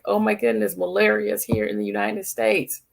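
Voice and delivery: high-pitched imitation of everyone panicking; mock alarm. Imitating everyone reacting to malaria news, mock alarm. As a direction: pitch it way up in pretend shock. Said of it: "Everyone's like".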